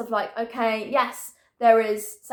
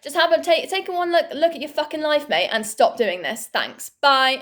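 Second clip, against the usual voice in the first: higher and louder, heated rant; telling off the caller; 4 semitones higher, 3 dB louder than usual. Retold or imitated. Telling off the scam caller, a heated, higher, louder rant. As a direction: tear into him, then a curt goodbye. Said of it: "I was like".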